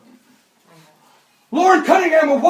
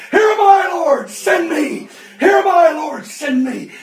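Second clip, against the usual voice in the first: crying out; 5 semitones higher, 4 dB louder than usual. Retold or imitated. Son weeping, crying out.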